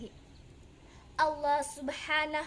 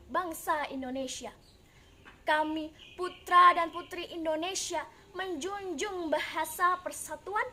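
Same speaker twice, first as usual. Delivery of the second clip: loud, ringing openings, firmer each "Kami"; pledge declamation; 2 semitones higher, 4 dB louder than usual. Acted. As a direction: declaim it like a national oath. Solemn recital of youth pledge.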